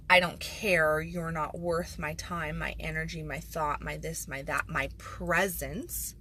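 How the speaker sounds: cold, offhand, dragging out the last word; dismissive voice of an absent partner. Retold or imitated. Partner who doesn't care, voiced with a slow brush-off. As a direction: sound like you can't be bothered. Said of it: "giving the feeling of".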